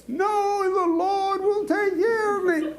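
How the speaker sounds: high, laughing cry of refusal; final stubborn refusal. Retold or imitated. Farmer gives his last refusal to the rescuers, laughing shout. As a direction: deliver the punchline, cracking up.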